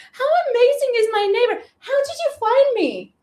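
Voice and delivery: high, fast, delighted gush; real giddy excitement; excited laugh. Real, not acted. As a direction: gush over the neighbor with a laugh. Excited greeting to neighbor.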